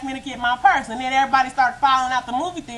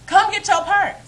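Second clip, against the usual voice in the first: higher, louder mock of an angry boyfriend; angry demand; 8 semitones higher, 4 dB louder than usual. Boyfriend orders her to fetch purse, mock angry. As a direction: bark it at her down the hall. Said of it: "mad as I don't know what".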